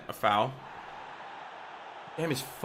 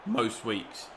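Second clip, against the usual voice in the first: voice crack; 3 semitones lower, 5 dB quieter than usual. Real, not acted. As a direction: voice cracking on the words. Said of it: "Yeah, voice crack".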